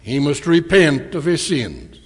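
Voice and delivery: plain blunt statement, falling at the end. Retold or imitated. Answering how one joins the church, bluntly. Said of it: "I said rather bluntly".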